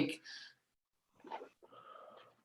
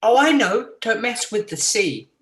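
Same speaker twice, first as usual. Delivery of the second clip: unhinged villain; 4 semitones higher, 4 dB louder than usual. Pretend. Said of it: "be like".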